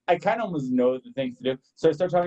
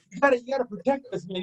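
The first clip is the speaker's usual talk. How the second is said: high-pitched imitated appeal; high, urgent mock protest; retold pleading protest; 7 semitones higher than usual. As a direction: plead like an exasperated coworker, in imitation. Retelling coworker's pleading argument.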